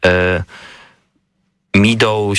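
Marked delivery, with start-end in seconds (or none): 1.7-2.4 "Meadow" with a long ee, as "MEE-doh"; mispronounced first syllable. Shown as a demonstration. Co-host tripping over English spelling, mispronounced with ee. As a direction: say "Meadow" wrongly as "mee-dow". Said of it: "się czyta nie, Meadow".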